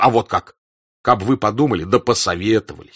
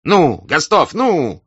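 high, loud, urgent call; raised, insistent shout; urging shout; 8 semitones higher, 7 dB louder, much slower than usual. A narrator's reading. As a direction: cry out to urge him on. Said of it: "закричал, вскакивая".

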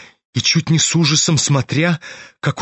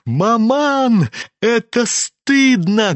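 higher, slow shocked cry; loud cry; 7 semitones higher, much slower than usual. A narrator's reading. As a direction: call out to shame her mother. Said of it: "громко вскрикнула Аглая". (громко и возмущённо, голос выше)

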